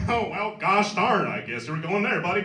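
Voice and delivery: mock folksy white American voice, slowing at the start; white American dad. Comic imitating his dad reacting to the commercial, white American accent. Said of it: "I don't know why he was talking like that".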